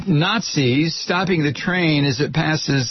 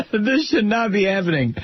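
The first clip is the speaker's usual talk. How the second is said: higher, amused mocking repeat; mocking laughter; 5 semitones higher than usual. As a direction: echo it scornfully straight out of a laugh. Repeats the understatement, laughing in disbelief.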